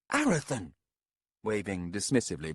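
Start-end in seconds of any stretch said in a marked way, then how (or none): 0.1-0.7 calling after him. Acted. Coria calls after him.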